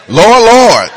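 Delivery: loud, laughing mock plea; pleading Lord Lord. Sinners pleading at judgment, loud and laughing. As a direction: cry it out like a desperate sinner. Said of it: "they're gonna double up on the Lord".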